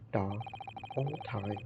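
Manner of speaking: a hint of a Russian accent, gruff and proud; broken-English Russian sailor. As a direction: play the touchy ship's guard, lightly accented. Guard boasts about his watch.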